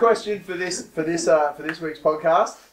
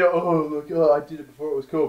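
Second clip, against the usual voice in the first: smug hipster. Retold or imitated. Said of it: "not to be".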